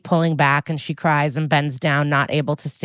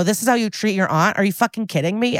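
mock-indignant aunt, pitched up; snippy; 4 semitones higher than usual. Aunt scolding her niece over the foot massager, snippy. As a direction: retell your snippy scolding, a little heated. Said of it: "I got kinda snippy".

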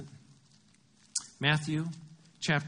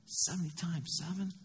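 softer, questioning disbelief with rising end; incredulous echo; 3 semitones higher, 7 dB quieter than usual. Acted. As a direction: repeat it as if you can't believe it. Peter balks at Jesus' figure.

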